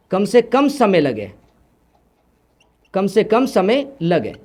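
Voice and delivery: measured phrases with pauses for note-takers. Real, not acted. Teacher dictates a definition slowly.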